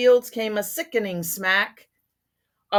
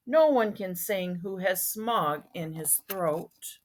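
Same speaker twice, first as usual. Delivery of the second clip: croaking Lorax voice; 2 semitones higher than usual. Acted. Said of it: "he cried with a crufulous croak".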